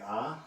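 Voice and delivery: open-mouthed ahh sound; saying ahh. Shown as a demonstration. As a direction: show the ahh for the throat check. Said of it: "and say".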